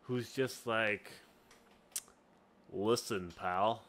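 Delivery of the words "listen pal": lower-pitched first try at a tough pal; rejected Zinc voice. Shown as a demonstration. Game master tries out Zinc's voice, low. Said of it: "no, not that kind of voice".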